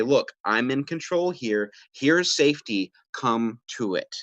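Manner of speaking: slow, steady and in charge; calm control. Shown as a demonstration. Parent to drowning child, calm and assertive. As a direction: calmly offer the safe spot. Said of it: "a calm individual to say".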